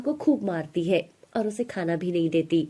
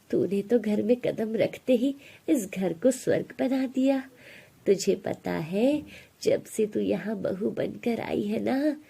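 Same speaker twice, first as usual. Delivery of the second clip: tender mother-in-law; 2 semitones higher than usual. Acted. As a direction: praise her gently like a blessing. Mother-in-law praises new bride.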